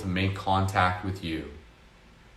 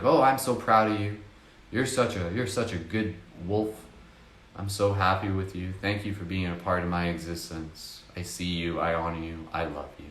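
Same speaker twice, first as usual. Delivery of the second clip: tender self-talk. Shown as a demonstration. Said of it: "You can say to it and be like".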